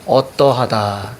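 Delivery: slow reading, each chunk's ending drawn out; chunked reading demo. Shown as a demonstration. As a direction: read it slowly in chunks, stretching the endings. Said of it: "이렇게 읽어줘야 돼".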